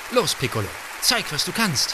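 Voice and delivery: laut anfeuern, höher am Ende; anfeuernd gerufen. A narrator's reading. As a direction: aufmunternder Zuruf. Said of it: "Und auch ich rief". (Erzähler feuert die kleine Flöte an, lauter)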